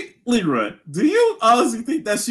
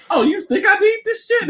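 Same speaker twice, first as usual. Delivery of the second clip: mock villain taunt; 12 semitones higher than usual. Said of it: "Wesker was just like".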